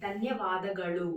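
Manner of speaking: ధన్యవాదಗಳು said slowly, syllable by syllable; pronunciation demo. Shown as a demonstration. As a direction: draw out ధన్యవాదಗಳು as a slow model for learners. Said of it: "అలా పలకండి ఇక్కడ".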